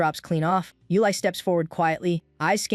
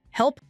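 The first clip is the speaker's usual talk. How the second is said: terrified scream; 8 semitones higher than usual. A narrator's reading. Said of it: "the three-second voice note plays a terrified scream".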